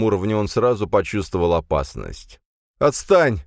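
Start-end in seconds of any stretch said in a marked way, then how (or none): 2.8-3.4 high, loud hoarse cry; hoarse shout. A narrator's reading. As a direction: yell it hoarsely at the attacker. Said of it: "сипло крикнул он".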